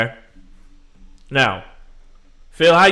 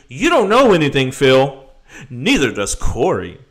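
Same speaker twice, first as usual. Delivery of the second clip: mocking critic; 4 dB louder than usual. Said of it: "telling me".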